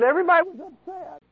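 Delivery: mock wailing demon. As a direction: whine it out like a defeated demon. Preacher voices a frightened demon.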